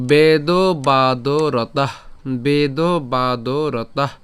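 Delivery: বেদবাদরতাঃ very slow, ending in a breathed "tah"; breath on final visarga. Shown as a demonstration. Teacher models বেদবাদরতাঃ, very slowly with an aspirated ending. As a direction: stretch each long vowel of বেদবাদরতাঃ, puff out the last h. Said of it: "আমরা উষ্মা ছাড়লাম".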